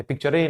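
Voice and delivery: पिक्चरे with an extra "ay" after the R; mispronounced पिक्चरे, R sounded into a final "ay"; wrong, added vowel. Shown as a demonstration. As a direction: tack a vowel onto the end, पिक्चरे. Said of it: "नहीं बोलते हैं".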